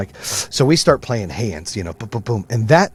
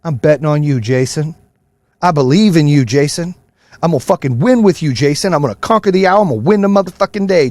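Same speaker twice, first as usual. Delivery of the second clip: lightly hyped self-pep talk, a bit louder; mild imitation of his daily mirror hype; 5 semitones higher, 3 dB louder than usual. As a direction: pump yourself up in the mirror. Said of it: "I stand in the mirror and I say".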